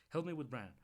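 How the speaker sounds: loud urgent cry for help; urgent call. A narrator's reading. Mother urgently calling her son to help with Bran. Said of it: "she said, urgently".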